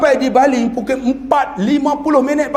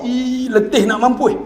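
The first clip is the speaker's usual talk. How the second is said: northern Malay dialect; slower than usual. Retold or imitated. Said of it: "kahwin orang Utara".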